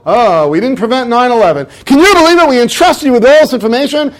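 mock public outrage. Public blaming the government.

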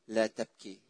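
لا تبكي dropped soft and low; hushed tender quote. Acted. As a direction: breathe the words gently like a comfort. Jesus's words, hushed.

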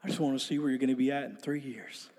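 low, soft, quick understated reply; imitating an unimpressed, still mentor; calm mentor. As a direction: deflate the hype with a quiet, low line. Calm mentor deflates the excitement.

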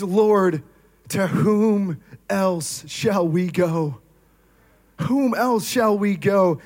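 slow, heartfelt confession; Peter's devoted plea; earnest prayer. Pretend. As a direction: pray it slowly, meaning every word.

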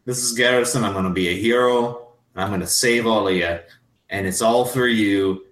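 put-on swaggering drunk hero promising to save her; boastful hero. Hamish bragging to Mrs Garrison, ending in a gushing squeal.

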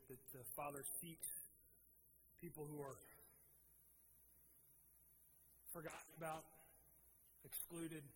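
calm, measured pastor's prayer to Jesus; closing prayer. Acted.

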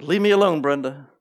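high, loud mock demon cry; playful demon shouting at the teacher. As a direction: shriek it like a cornered demon. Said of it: "an unclean spirit comes in and says".

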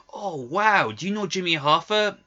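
put-on young trucker gushing over Hoffa; mock starstruck trucker. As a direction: gush like a wide-eyed fan. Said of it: "He's like".

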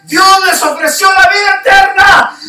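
high, loud shout across the herd. Retold or imitated. Dreamer shouting to the running animals. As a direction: call out over the stampede. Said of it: "yo les gritaba".

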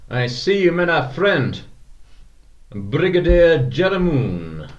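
saloon keeper voice. Acted. Bartender voice in saloon scene.

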